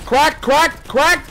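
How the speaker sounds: high, punchy repeated shout; excited combat callout; urgent callout. Real, not acted. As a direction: call it out in quick high bursts. Calling out hits in game.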